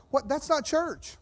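high-pitched disbelief; a high, incredulous reaction; incredulous protest. Acted. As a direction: exclaim it in baffled objection. Preacher's incredulous reaction, acted out.

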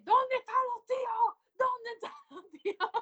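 high mock-excited imitation; imitating a singer's video. Podcaster imitates a girl in a singer's video, high mock-excited cry. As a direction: pitch it up, teasing the clip. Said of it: "la requetona".

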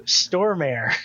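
"Stormare" with the R after the O; demonstrated pronunciation. Shown as a demonstration. Answering how the bassist's name is said, a demonstrated pronunciation. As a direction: say "Stormare" as store-mare. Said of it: "How do you say it?".

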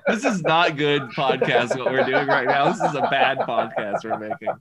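talking through real laughter; laughing. Real, not acted. Admitting to the co-hosts they're making a bad podcast, laughing. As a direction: laugh your way through the words.

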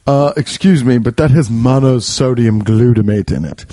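mildly pretentious, fussy objection; pretentious raccoon. Acted. Hipster raccoon turning down dumpster food, mildly pretentious. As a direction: put on a snooty little laugh and object. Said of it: "this really pretend".

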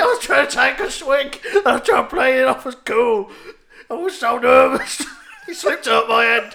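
loud, laughing blubber; mock crying. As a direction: wail out the excuse, hammed up. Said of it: "He's still crying".

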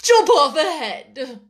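haughty duchess orders; imperious command. A narrator's reading. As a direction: bark the order coldly. Duchess voice in story.

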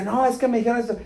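lightly imitated weepy complaint; mock tearful. Girlfriend complains about his brothers' teasing, mildly mock tearful. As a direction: imitate a hurt, crying girlfriend, understated. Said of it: "y lloraba".

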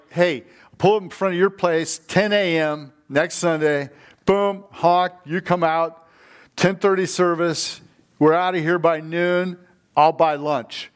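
mock enthusiastic friend making firm plans; eager invite. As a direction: sell it like you're already coming by to pick them up. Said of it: "bringing somebody is more like".

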